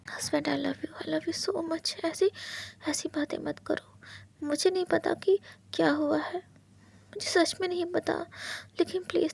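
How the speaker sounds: Wing comforting husband, soft and tender; tender hush. Acted. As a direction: murmur it close and tender.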